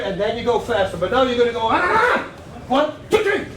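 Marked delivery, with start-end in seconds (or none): 1.7-3.5 rushed count. Shown as a demonstration. Coach shows students the rushed wrong count. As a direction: jump in with a yelp, then blurt the count. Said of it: "Don't do that".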